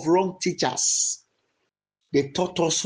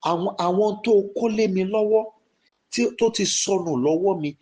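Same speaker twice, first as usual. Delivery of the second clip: fast, urgent pleading prayer in Yoruba; fervent prayer; much faster than usual. Shown as a demonstration. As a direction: rush the words, begging Olúwa for mercy. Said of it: "Go ahead and pray".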